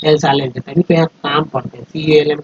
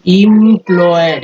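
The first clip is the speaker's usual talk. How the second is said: slow teaching take; 2 semitones higher, 5 dB louder, much slower than usual. Shown as a demonstration. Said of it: "ई एम को इम बोलते हैं".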